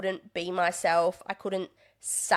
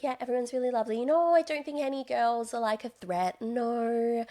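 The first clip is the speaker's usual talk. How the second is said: mock timid niceness; 4 semitones higher than usual. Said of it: "I was too scared to say anything else".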